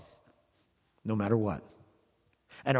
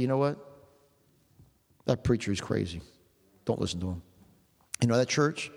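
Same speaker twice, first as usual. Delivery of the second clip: sly whisperer; 3 semitones lower than usual. Retold or imitated. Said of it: "who whispered in your ear".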